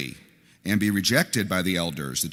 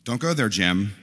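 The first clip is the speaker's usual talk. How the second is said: mock warning. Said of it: "when people say this".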